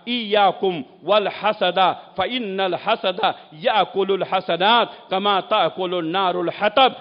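slow, measured Arabic recitation; Arabic scripture quotation. Real, not acted. Preacher quoting the Prophet's warning on envy, measured recitation. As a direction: recite the Arabic deliberately, word by word.

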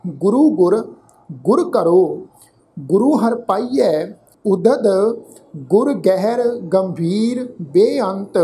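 slow, measured verse reading with pauses; slow sacred-verse recital; scripture recitation. Shown as a demonstration. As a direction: recite each phrase deliberately, drawing out the words.

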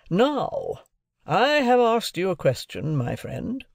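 high, emphatic lawyer's address; questioning lawyer. A narrator's reading. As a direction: press the point like a cross-examiner. Lawyer cross-examining his ward.

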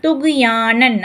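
துக்யானன் with a stopped "gh" before yaa; no vowel after the gh in துக்யானன்; vowelless ghain. Shown as a demonstration. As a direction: close on "tugh", then "yaa-nan" in துக்யானன். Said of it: "இக்குன்ற sound வரும்".

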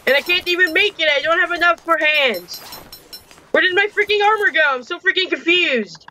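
high, exasperated complaining; a gamer whining high-pitched about lost armor; frustrated outcry. Real, not acted. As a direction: vent the confusion, voice pushed up high. Can't find his armor.

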